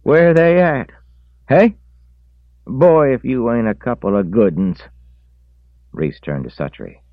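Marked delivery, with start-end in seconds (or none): 0.0-4.8 very high, loud scolding shout; angry shouting woman. A narrator's reading. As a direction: shout it at them. Wife scolding again.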